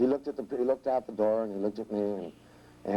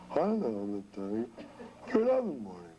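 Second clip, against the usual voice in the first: sounding tired. Shown as a demonstration. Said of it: "as long as they sound like".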